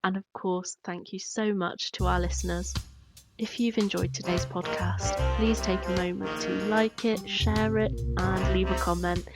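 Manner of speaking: measured, friendly sign-off to listeners; lightly scripted outro over music; podcast outro read. Acted.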